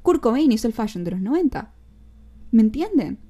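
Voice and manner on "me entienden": loud rhetorical question. Real, not acted. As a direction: punch "¿Me entienden?" loud, falling. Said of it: "louder repeat".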